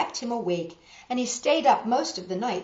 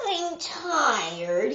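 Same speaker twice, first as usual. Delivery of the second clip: announced; 5 semitones higher than usual. A narrator's reading. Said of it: "he announced".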